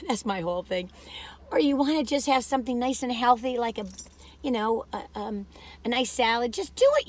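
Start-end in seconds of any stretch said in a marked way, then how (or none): 0.1-0.9 conspiratorial whisper; hushed confiding aside. Real, not acted. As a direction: whisper it like a secret. Confiding aside about treats.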